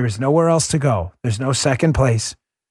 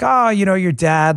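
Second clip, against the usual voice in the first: higher-pitched imitation of a chummy host; playful coaxing; 7 semitones higher, 3 dB louder than usual. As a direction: lightly tease a child, pitched up. TV host jokingly prompts his daughter.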